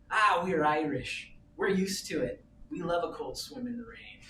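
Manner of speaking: mild Irish lilt, easygoing and unbothered; light Irish accent. Retold or imitated. Old Irish swimmer answering the tourist, light Irish accent. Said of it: "in the sweetest Irish accent".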